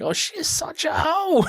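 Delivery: high, slow, catty put-on voice; catty mock voice. Girl trash-talking Buffy earlier, in a high, slow catty voice. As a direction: drag it out like mean gossip. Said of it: "being like".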